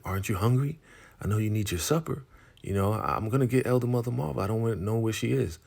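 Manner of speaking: high, quick put-on woman's voice; voiced woman. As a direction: rattle it off high and fast. Recapping show, voicing female character.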